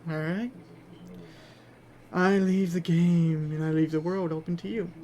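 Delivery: usual speaking voice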